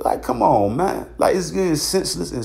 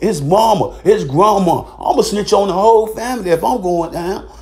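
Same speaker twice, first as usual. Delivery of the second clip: mock snitch; 3 semitones higher than usual. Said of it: "they gonna be like".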